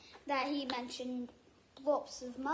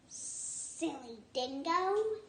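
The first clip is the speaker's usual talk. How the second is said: hissed; 2 semitones higher, much slower than usual. Acted. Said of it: "he hissed".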